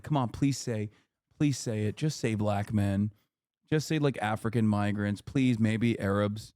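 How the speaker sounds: mock pleading interviewer. Streamer mocks the interviewer begging, low pleading voice. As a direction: beg for the soundbite, half-hearted.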